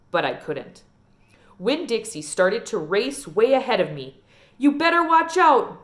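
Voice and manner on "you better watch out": higher, louder warning yell; boy hollering. Retold or imitated. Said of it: "Dunlap hollered".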